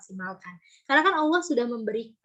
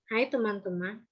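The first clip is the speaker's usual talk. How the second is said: a softer, droopy mock-sad hello; sad greeting; 3 dB quieter than usual. Shown as a demonstration. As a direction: greet them a little downcast. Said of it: "ekspresinya sedih". (sapaan dengan nada sedih)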